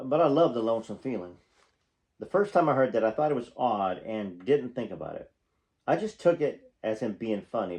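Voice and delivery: reading a memoir aloud, projected and animated; memoir narration. A narrator's reading. Fan reading stories about a singer to viewers, animated narration. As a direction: read it out like an audiobook storyteller.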